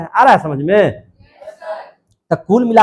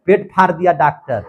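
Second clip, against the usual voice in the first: mock drawn-out alarm call; slow, lightly acted complaint with a long opening cry; alarmed brain report; 4 dB louder than usual. Nerves report the cut belly to the brain, mock alarm. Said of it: "सूचना देगा इसको ब्रेनमा के".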